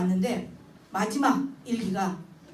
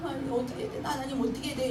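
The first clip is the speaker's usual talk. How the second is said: much softer, lost and pleading; helpless murmur; 6 dB quieter than usual. Retold or imitated. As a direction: ask God quietly, not knowing what to do. Mother praying helplessly. (하나님께 조용히 하소연하며)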